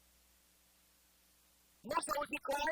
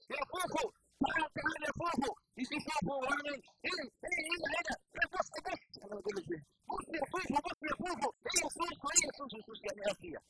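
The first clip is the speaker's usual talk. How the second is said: Egyptian Arabic calling; much faster than usual. Retold or imitated. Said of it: "وما تعرف المصريين بتدعوا بعضهم".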